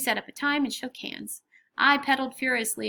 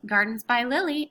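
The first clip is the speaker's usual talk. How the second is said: grown-up professional voice; 2 semitones higher, 4 dB louder than usual. Acted. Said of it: "my most grown-up professional voice".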